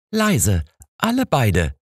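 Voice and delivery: calm the quarrel firmly; lightly voiced firm landlady. A narrator's reading. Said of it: "sagte sie bestimmt".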